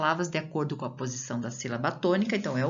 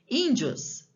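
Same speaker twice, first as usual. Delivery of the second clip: ÍNdios with a high-pitched ÍN, falling away; stronger first syllable; 8 semitones higher than usual. Shown as a demonstration. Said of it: "Eu falo ela mais forte".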